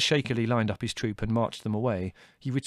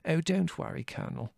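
higher voice, falling soft; shaky reassurance; 6 semitones higher, 4 dB quieter than usual. A narrator's reading. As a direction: reassure while a little shaken. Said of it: "said Mother, shakily".

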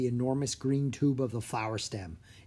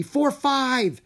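counting up, louder on each number; calling out; 12 semitones higher, 6 dB louder than usual. A narrator's reading. Drake counting petals aloud, rising to a call. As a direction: build to a called-out five. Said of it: "he called out".

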